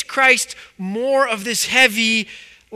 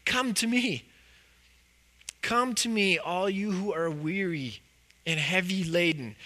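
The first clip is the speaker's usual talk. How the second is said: gentle invitation; 5 dB quieter than usual. Acted. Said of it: "in the opposite vein".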